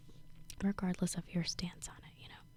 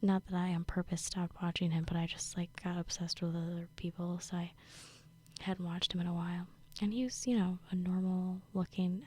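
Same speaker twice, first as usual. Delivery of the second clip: ASMR whisper. Real, not acted. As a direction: whisper it close to the mic, like you're sharing gossip. Whispers throughout, ASMR style.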